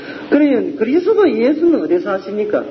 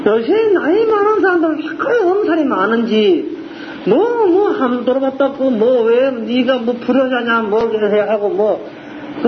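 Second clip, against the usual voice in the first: ordinary talk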